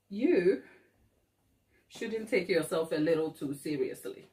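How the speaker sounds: ordinary delivery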